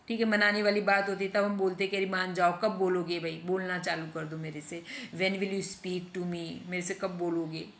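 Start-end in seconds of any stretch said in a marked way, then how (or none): 2.0-7.7 gentle coaxing, sinking softer; mild pleading to make up; coaxing plea. Acted. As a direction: win back a sulking friend. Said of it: "feeling वाले sentences".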